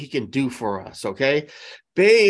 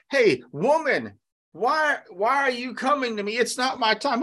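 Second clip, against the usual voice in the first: brushing her off; 7 semitones higher than usual. Retold or imitated. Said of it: "he brushes her mother off".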